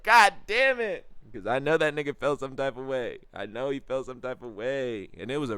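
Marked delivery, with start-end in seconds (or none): 0.0-1.1 high, loud, drawn-out curse; exasperated yell. Acted. Man cursing his friend's awkward remark, exasperated yell. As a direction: stretch it into a comic cry of dismay. Acts out dismay.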